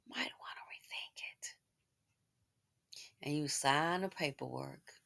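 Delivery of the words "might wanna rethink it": hushed, voiceless aside; whispered warning. Real, not acted. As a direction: whisper it as a cautionary word.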